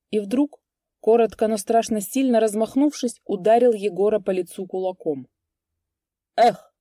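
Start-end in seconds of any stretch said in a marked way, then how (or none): 6.4-6.7 loud spiteful grunt; angry grunt. A narrator's reading. Vaska grunting spitefully at the blow, loud. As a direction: bark it out with malice. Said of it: "злобно крякнул Васька".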